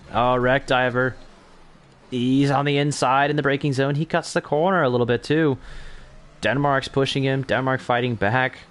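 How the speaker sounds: excited commentary. Real, not acted. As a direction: call the wheel-to-wheel fight live. Live battle for position on track.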